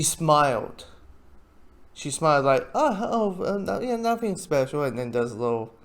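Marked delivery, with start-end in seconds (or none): 2.7-4.8 higher, hesitant brush-off; guilty denial. Retold or imitated. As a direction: imitate someone guiltily playing it down. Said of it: "a little guilty".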